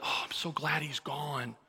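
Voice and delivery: mild retold sigh of relief; lightly voiced relief; relieved. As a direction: act out being glad it's over. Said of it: "then I felt relieved".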